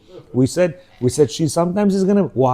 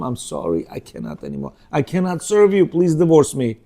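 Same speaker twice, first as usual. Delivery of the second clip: weary plea. Retold or imitated. Wife asks husband for divorce.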